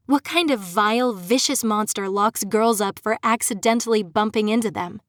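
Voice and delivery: angry outburst at her captor; indignant. Acted. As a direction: throw the accusation at him.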